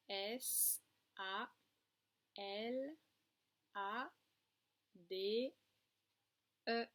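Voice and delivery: slow, separate letter names; one letter at a time, with pauses; spelled out. Shown as a demonstration. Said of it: "la correction du mot salade".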